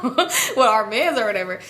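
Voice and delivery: slow, drawn-out mock of her friend's line; mocking repeat. The teller mocks her friend's answer, slow and teasing. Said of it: "She was like".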